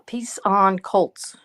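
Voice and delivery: slowly pondered phrase; slow sounding-out. Real, not acted. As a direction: stretch it out as if reading it off.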